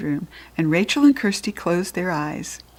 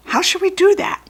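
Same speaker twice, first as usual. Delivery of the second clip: goblin voice; 13 semitones higher, 5 dB louder than usual. Acted. First goblin asks.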